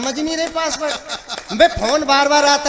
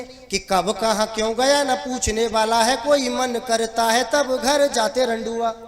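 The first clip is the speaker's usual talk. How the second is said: rhythmic recited comic refrain; verse refrain; slower than usual. Acted. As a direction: deliver it as a lilting stage couplet. (लयदार हास्य कविता पाठ)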